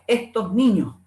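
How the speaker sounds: ESTOS NIÑOS with the final S's softened away; aspirated final S. Shown as a demonstration. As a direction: drop the S at syllable ends in "estos niños". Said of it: "la aspiración de la S implosiva".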